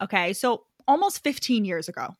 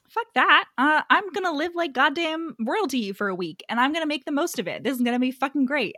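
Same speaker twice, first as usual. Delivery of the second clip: higher-pitched, gung-ho resolve; mock-determined, pitched up; defiant character quote; 4 semitones higher than usual. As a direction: imitate her deciding to live it up. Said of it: "But then she's like".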